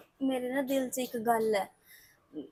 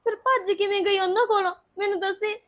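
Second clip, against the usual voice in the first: crying; 4 semitones higher, 3 dB louder than usual. Acted. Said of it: "ਕਿਉਂ ਰੋਈ ਜਾਂਦੇ ਹੋ ਤੁਸੀਂ".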